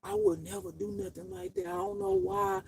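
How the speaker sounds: lightly voiced fake-innocent man; imitating the accused man. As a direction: play him faking sorrow and innocence. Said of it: "He was so convincing".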